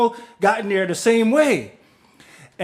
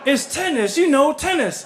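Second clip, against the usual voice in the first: laughing; 8 semitones higher than usual. Retold or imitated. Janet explains tennis, laughing.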